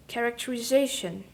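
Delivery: "characterization" with main stress on ZA, secondary on CHA; emphatic ZA in "characterization", lighter beat on CHA; derivational stress shown. Shown as a demonstration. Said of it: "syllable which had primary stress".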